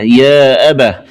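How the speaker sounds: أبه ending in breathed h; stop on ha. Shown as a demonstration. Teacher showing the stopped form, أبه closed with h. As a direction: pause on أبه as "abah". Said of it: "ووقف عليها بالهاء".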